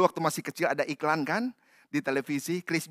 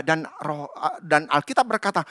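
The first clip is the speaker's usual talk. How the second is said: ordinary talk, nothing marked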